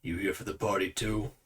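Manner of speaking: low, soft-spoken doorman; bouncer. Acted. Bouncer steps aside to question a guest, low and quiet. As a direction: drop the pitch and keep it quiet, like a big guard. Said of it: "moves to the side and goes".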